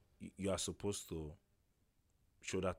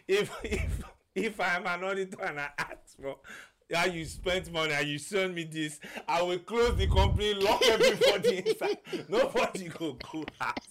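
angry auditor impression; 6 semitones higher than usual. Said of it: "He's like".

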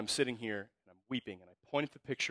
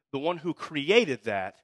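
slow and louder, each word weighed; building emphatic; 4 semitones higher, 6 dB louder, much slower than usual. Real, not acted. Preacher to the congregation, slow and rising in force. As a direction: drive the point home to the church.

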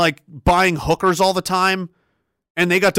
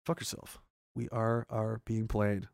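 whispered reread; 6 semitones lower, 13 dB quieter, slower than usual. Shown as a demonstration. Rereading chat quietly.

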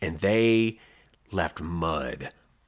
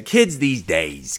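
put-on old-timer grumble; 3 semitones lower, much slower than usual. Grumbling about the muddy teens.

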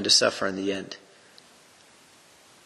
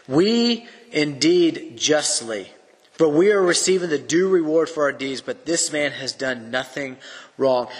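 earnest rebuke; 3 semitones higher than usual. Acted. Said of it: "the others rebuked him".

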